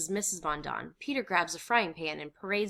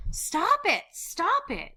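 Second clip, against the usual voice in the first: very high, loud cry; upset outcry; 7 dB louder, much slower than usual. Acted. Breaking into the potato quarrel, upset. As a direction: scream for the quarrel to end.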